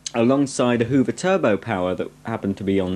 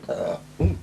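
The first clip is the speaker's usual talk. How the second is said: an unexpected burp slipping out; 6 dB quieter than usual. Real, not acted. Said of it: "I don't normally burp like that".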